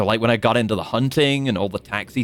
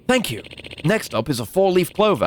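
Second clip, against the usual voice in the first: put-on old man voice; 8 semitones higher than usual.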